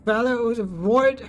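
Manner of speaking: a touch of fear, pleading over the radio; slightly frightened. Acted. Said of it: "a clear and slightly frightened voice".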